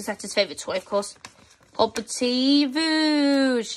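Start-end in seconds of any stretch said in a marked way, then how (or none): 1.8-3.8 cartoon voice stretching "voosh" right out. Speaker sticking on a favourite-toy sticker, calling out Bing's Hobbity Voosh cry. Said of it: "that's what Bing says with his toy".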